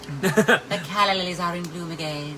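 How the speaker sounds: lightly voiced Hollywood grande dame; a hint of Hepburn's trill; Katharine Hepburn voice. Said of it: "old Katharine Hepburn".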